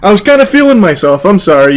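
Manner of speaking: lightly voiced sheepish suspect; mock apologetic. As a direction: mimic the suspect's hangdog apology. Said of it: "so now he's all apologetic".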